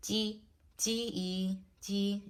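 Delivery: "D" held high and even; level first tone. Shown as a demonstration. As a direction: say "D" on one high steady pitch, stretching it into "D, E". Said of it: "is the level tone or the first tone".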